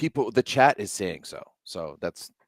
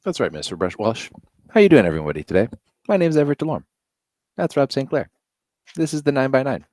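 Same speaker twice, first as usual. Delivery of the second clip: higher, bright radio host intro; put-on announcer voice; 4 semitones higher, 5 dB louder, faster than usual. Host opening the show for everybody in a put-on announcer voice. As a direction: ham up the show opening like a big-time announcer. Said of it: "I don't know why I'm talking like this".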